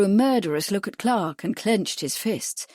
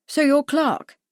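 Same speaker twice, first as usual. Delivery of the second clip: genial; 7 semitones higher, 4 dB louder, slower than usual. A narrator's reading. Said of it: "Bradford said genially".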